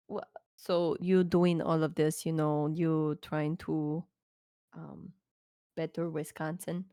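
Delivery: lightly voiced, halting interviewer; hesitant interviewer. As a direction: feel your way through a careful question. Player voices interviewer questioning biker.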